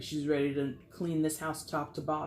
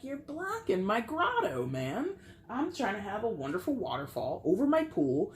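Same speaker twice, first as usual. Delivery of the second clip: mock indignant whine; 5 semitones higher than usual. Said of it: "and you're like".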